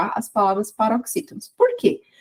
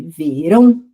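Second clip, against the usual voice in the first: "verão" with final RÃO held and louder; stressed syllable stretched; 4 semitones lower, 7 dB louder, slower than usual. Shown as a demonstration. Teacher demonstrating for students, final RÃO of "verão" stressed and stretched. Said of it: "é a sílaba que se estende".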